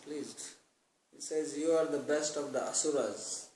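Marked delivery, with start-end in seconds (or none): 1.6-3.5 words breaking into a laugh. Real, not acted. Preacher quoting the Lord to his audience, laughing. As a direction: say it as the laughter takes over.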